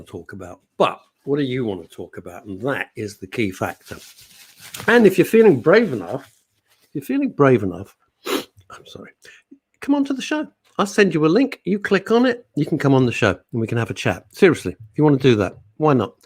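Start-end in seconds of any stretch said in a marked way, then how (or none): 4.9-7.9 dramatic dare. Acted. Daring listeners to join. 9.8-12.5 squeaky coaxing. Acted. Coaxing listeners to join.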